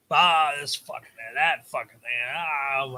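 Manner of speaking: a lightly voiced obnoxious young guy, cussing for laughs. Mocking the cussing kids at breakfast, lightly voiced. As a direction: ham up a crude kid showing off.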